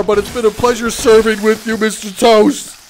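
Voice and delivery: mock solemn farewell. Mock farewell before death.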